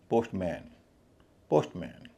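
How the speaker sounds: पोस्टमैन with an open मैन, pitched low; full "man" vowel. Shown as a demonstration. Teacher voicing the common mistake, पोस्टमैन with full मैन vowel. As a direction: say मैन fully, as in the word man. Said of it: "इसका उच्चारण पोस्टमैन नहीं होता".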